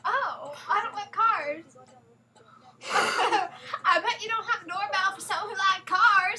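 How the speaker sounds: light hillbilly twang on every word; hillbilly accent. Acted. Friend prompted to say the line, in a light hillbilly accent. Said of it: "Why do you have an accent now?".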